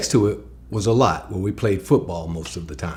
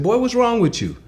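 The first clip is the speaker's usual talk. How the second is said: much higher, alarmed mother's voice; mom's alarmed question; 13 semitones higher than usual. Retold or imitated. Mother rushing out to her son, high and alarmed. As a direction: pitch it way up like a startled mom. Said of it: "she said".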